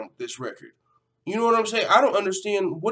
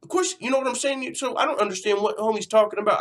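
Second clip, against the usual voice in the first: exasperated vlogger ranting at a fighter's tweet; heated rant; 6 semitones higher, 4 dB louder than usual. Real, not acted. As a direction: voice climbing higher and louder in disbelief. Ranting about betting money claim.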